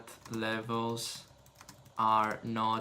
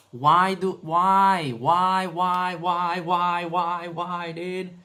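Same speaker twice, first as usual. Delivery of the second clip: exasperated whys; 4 semitones higher, 4 dB louder, slower than usual. Real, not acted. Repeated frustrated whys.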